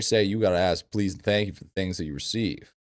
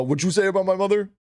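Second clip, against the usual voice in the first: higher, fast, hammed-up indignation; mock offended outburst; 10 semitones higher, faster than usual. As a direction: fire it back fast in fake outrage. Mock offended outburst after quote.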